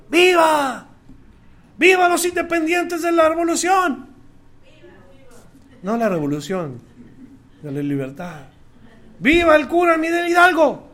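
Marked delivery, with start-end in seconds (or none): 0.1-4.1 high, rousing cheers of Viva; rally the crowd with each Viva. Retold or imitated. Preacher imitating the crowd at the independence cry, high rousing cheer. Everyone shouts at the celebration. 9.2-10.9 high, rousing cheer; patriotic cheer. Retold or imitated. Preacher imitating the crowd cheering Hidalgo, high patriotic cheer.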